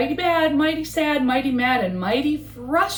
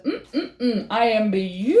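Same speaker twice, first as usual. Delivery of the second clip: chuckling self-admiration; pleased with himself. Acted. Frog admires himself in the pond, chuckling. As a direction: savour your own reflection.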